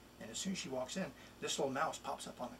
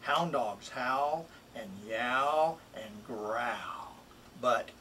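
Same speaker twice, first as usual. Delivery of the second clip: a pet-store mouse selling himself, lively and bouncy; lightly voiced mouse, playful and persuasive; eager mouse reading his rhyme. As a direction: read it as the little mouse pleading to go home. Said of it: "It's really the mouse speaking".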